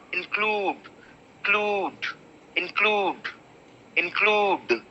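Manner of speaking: include with a very short in, stress on CLUDE. Shown as a demonstration. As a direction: clip the in, land on CLUDE. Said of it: "In is very short".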